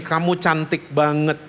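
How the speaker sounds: soft, tender praise to his daughter; tender compliment. Retold or imitated. Father at the restaurant telling his little daughter, soft and tender. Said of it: "saya selalu bilang gini".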